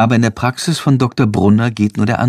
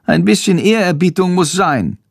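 high bat voice, solemn; a small bat insisting on respect; lightly voiced bat, solemn; 7 semitones higher than usual. Narrator voices the bat Chandor.

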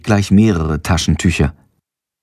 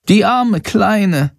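sad little bat; 9 semitones higher, much slower than usual. A narrator's reading. Bat grieves.

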